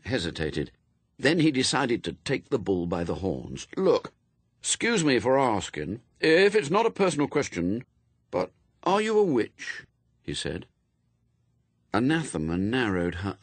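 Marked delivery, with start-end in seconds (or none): 3.8-9.8 put-on high-pitched boy, politely curious; young Adam, tentative. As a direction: ask carefully in a high boyish voice.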